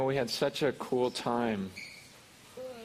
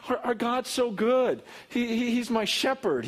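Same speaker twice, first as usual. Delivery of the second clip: much higher and louder, fast and fervent; excited preaching; 11 semitones higher, 5 dB louder than usual. Acted. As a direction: preach it with rising joy and energy.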